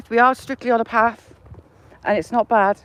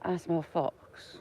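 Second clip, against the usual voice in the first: playful hunter; 5 semitones lower, 11 dB quieter, much slower than usual. Pretend. Hunting a fox on a walk.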